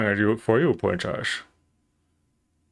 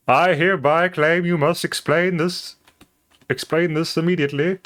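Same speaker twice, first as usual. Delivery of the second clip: princess voice; 5 semitones higher than usual. Acted. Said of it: "still doing this voice".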